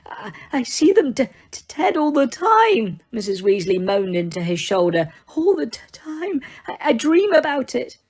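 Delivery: high, stammering, tearful voice; barely holding it together. A narrator's reading. Mrs Weasley weeps into Lupin's shoulder, high and stammering.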